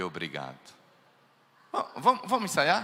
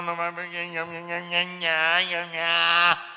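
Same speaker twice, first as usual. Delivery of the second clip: mocking nagging; slower than usual. Mocking a partner's nagging argument.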